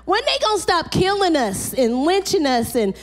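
impassioned pleading prayer; preaching lament. Real, not acted. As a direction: cry out to the Lord.

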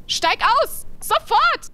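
loud, high barked order; shouting command. Pretend.

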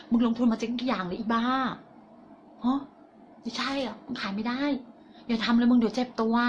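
quiet, discouraging voice in the head; little inner voice. Acted. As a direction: softly talk yourself out of trying. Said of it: "เสียงเล็กๆของฉันที่มันดังอยู่ในหัวสมอง". (เสียงเล็กๆ ในหัว ห้ามและบั่นทอนเบาๆ)

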